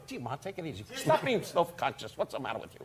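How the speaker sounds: soft, hushed plea to tone it down; embarrassed son hushing. Retold or imitated. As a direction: shush her under your breath. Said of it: "And I go".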